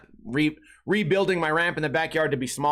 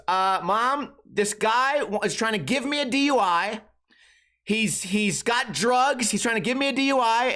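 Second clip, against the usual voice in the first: whiny date imitation; 5 semitones higher than usual. Imitating date whining to mom.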